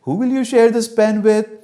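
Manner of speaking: loud, drawn-out delighted approval; gushing motherly delight; very happy mother. Acted. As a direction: praise the child with big swoops, ending high. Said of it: "my mother becomes very happy".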